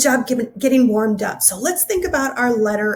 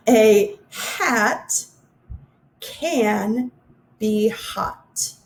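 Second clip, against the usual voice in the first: slow again, pausing between words; slow careful reading; much slower than usual. Shown as a demonstration. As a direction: read it once more slowly. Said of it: "I forgot to raise my hands".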